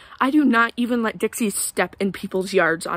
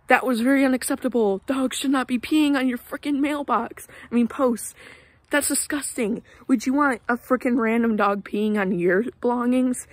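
higher, worked-up complaint; indignant rant; 4 semitones higher than usual. Real, not acted. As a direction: vent your disgust at rude neighbors. Ranting about dog peeing on mailbox.

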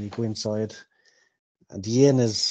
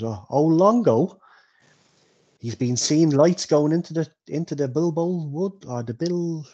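higher-voiced, chatty innkeeper; 3 semitones higher than usual. Innkeeper tells Bilbo about the drinker at the bar, chatty. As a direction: gossip like a village innkeeper, pitched up.

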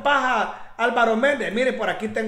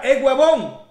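mildly louder mock of his pushy pitch; a commentator mocks Méndez's promise, mildly louder imitation; imitating Méndez; 3 dB louder than usual. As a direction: parrot his cocky huevón talk, a bit louder. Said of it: "como él dice la palabra".

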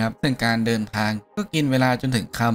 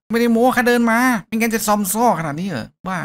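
put-on much higher, louder, childish protest; whiny kid insisting; 10 semitones higher, 3 dB louder than usual. Kid insists to the doubting hero he walked, whiny. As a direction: whine it out, offended.

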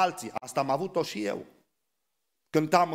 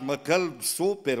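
slow, coaxing mock plea; wheedling plea; 2 semitones lower, slower than usual. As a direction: coax him gently, mockingly. Wheedling quoted objector, slower. (rugămintea mieroasă, imitată)

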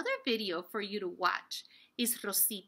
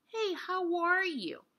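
whisper; 9 semitones higher than usual. Shown as a demonstration. Casual greeting example in lesson.

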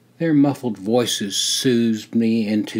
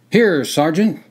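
calling out; 7 semitones higher, 5 dB louder than usual. A narrator's reading. Answering a roll call.

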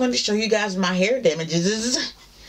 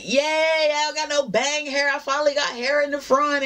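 retold cheer; 9 semitones higher than usual. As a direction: cheer like you finally won. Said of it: "And I was like".

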